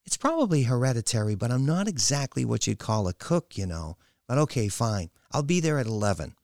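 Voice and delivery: high-pitched daughter conceding to mother; daughter Kylie. Acted. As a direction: give in, then test the water.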